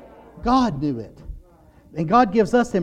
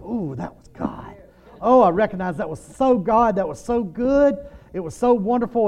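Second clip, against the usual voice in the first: mock rapture; 4 semitones higher than usual. Basking in God's glory.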